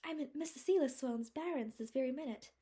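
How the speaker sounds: put-on high, loud rapturous young woman's voice. A narrator's reading. Anne, face buried in mayflowers, rapturous. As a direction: breathe it out in delight. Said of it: "she said rapturously".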